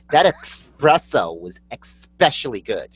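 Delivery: espresso and especially with "ex" at the start; X pronunciations. Retold or imitated. Co-host imitating another's mistake, "expresso", "expecially". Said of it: "probably says especially".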